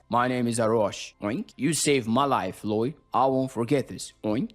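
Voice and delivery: hint of a low orc warrior, punctuated with oinks; lightly voiced orc.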